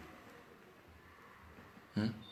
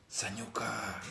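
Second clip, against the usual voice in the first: breathy whispered word; 12 dB quieter, slower than usual. Acted. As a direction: whisper it like a secret. Whispered aside in speech.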